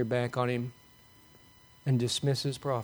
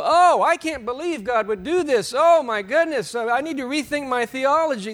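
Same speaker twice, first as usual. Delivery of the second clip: high, loud, hammed-up alarm; mock horrified gasp of disbelief; mock shock; 8 semitones higher, 5 dB louder than usual. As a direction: play the scandalised believer who can't believe it. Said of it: "you shouldn't go".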